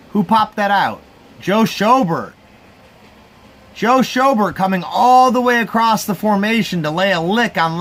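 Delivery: fired-up fan breaking down the play; excited. Real, not acted. Excited replay of the fumble.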